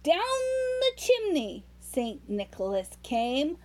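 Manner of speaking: put-on rhythmic read-aloud to a child; lilting Christmas poem reading; storybook poem reading. A narrator's reading. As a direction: read the verse like a bedtime story.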